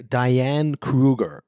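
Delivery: "Diane Kruger" drawn out very slowly with English vowels and r; "Diane Kruger" stretched into a mock Hollywood pronunciation; mock anglicized name. Shown as a demonstration. Podcaster mocking how the actress anglicizes her name. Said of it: "nicht dieses so eingeenglischt".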